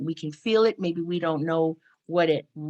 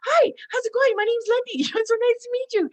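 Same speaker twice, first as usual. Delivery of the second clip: much higher, bright-eyed eager hello; bubbly greeting; 5 dB louder than usual. Retold or imitated. Woman introducing herself after lockdown, bubbly and eager. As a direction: greet a stranger like you're starved for company. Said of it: "And I'm like".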